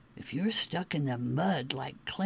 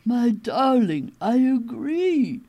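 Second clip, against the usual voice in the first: lady kangaroo voice; 4 semitones higher, 6 dB louder than usual. A narrator's reading. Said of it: "Replied a lady kangaroo".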